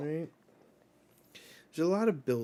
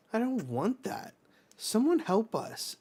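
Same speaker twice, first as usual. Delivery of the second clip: put-on scared kid; 10 semitones higher than usual.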